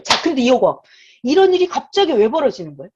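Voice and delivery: 이런 pushed hard, asking why; loud rhetorical question. Real, not acted. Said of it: "rhetorical question to congregation".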